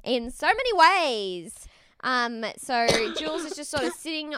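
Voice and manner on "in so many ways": loud, drawn-out exasperation; exasperated disbelief. Acted. Podcaster telling a dating-show contestant she deserves better, exasperated. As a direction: plead slowly and loudly, hammering every word.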